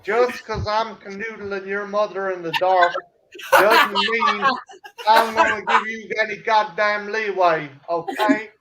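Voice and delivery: hammed-up southern scolding; mock southern accent. Warning his friend of no leeway, mock southern. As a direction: lay down the law in playful southern. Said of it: "give me goddamn southern accent".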